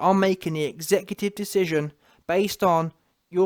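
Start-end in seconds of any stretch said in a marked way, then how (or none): none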